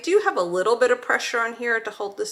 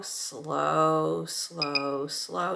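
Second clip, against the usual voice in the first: self-coaching murmur; 3 semitones lower, 5 dB quieter, much slower than usual. Real, not acted. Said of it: "I tell myself slow".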